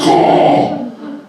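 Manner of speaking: voiceless mock slam noise; imitated gate slam. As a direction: make the sound of gates crashing shut. Imitates gates slamming in his face.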